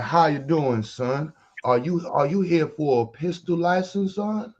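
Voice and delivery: high, drawn-out mock Southern greeting; imitating Southern clerk. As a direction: lightly mimic a slow-talking Alabama clerk. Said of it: "Why this nigga talking like this".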